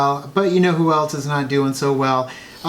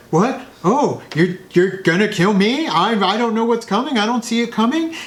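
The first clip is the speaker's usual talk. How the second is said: lightly voiced mocking Snoke, higher; a hint of a smug villain taunting; Snoke impression; 7 semitones higher than usual. Host imitates Snoke taunting Rey, mocking and higher. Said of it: "as Andy Serkis".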